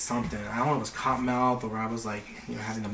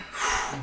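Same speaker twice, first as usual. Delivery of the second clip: short, airy breath effect; imitated bong hit; 5 dB quieter than usual. Acting out another big hit.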